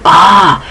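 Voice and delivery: exasperated "ah"; angry groan. Real, not acted. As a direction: let out a frustrated, angry "ah". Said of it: "making me so angry right now".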